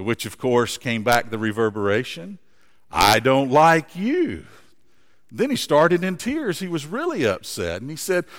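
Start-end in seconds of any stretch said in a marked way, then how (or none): 2.9-4.4 echo. Acted. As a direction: answer as the mountain echo. Echo answers the boy.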